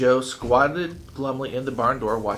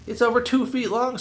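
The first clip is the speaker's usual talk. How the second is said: a much higher, louder screech; 12 semitones higher, 4 dB louder than usual. Acted. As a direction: screech it in outraged disbelief. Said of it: "screeched Billy".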